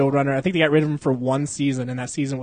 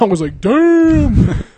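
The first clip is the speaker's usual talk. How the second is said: laughing; 9 semitones higher, 8 dB louder, much slower than usual. Retold or imitated. Laughing retelling Gus scene.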